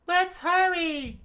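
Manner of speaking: high, loud urgent scream. A narrator's reading. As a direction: scream it to rush them. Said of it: "she screamed out".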